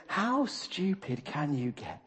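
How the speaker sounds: slow, understated mock disbelief; laughing scorn. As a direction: lightly scoff as God, stretching the words. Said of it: "laughing, saying".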